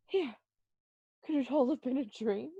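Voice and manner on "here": gasp. Acted. Waking from the nightmare.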